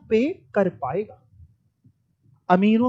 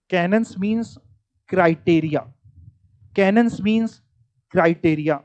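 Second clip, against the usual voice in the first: deliberate repetition; 3 semitones lower than usual. Shown as a demonstration. Teacher drilling a definition into the class, deliberately repetitive. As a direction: drill the phrase like a stuck CD, same tune each time. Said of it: "मेरी सीढ़ी अटक नहीं गई, मैं जानबूझ के".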